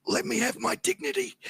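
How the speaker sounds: high pleading through laughter; laughing plea. Retold or imitated. Carried man begging Kelly, high laughing plea. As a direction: beg for dignity while cracking up. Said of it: "I go".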